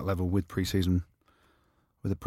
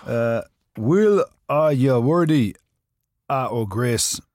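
Scottish reading; 3 dB louder, much slower than usual. Pretend. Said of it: "the Scottish version".

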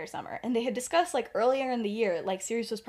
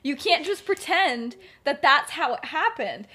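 mock indignant protest; 6 semitones higher, 10 dB louder than usual. Remus disputes Sirius's version.

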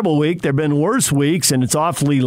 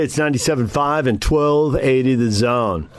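upbeat on-air radio host voice; 2 semitones higher than usual. Real, not acted. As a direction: announce it like a morning DJ. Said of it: "I like the D J radio voice right there".

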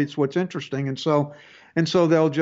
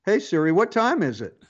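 lightly raised voice commanding the phone; talking to Siri; 3 semitones higher than usual. Shown as a demonstration. Host demonstrates his phone, asking Siri the time. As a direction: call out to the phone assistant. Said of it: "I have a British accent on mine".

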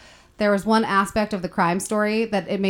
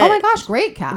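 excited; 12 semitones higher than usual. Real, not acted. Excited about the cast.

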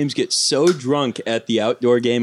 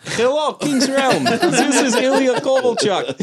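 put-on Russian accent; 11 semitones higher than usual. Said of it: "I do a decent Russian accent".

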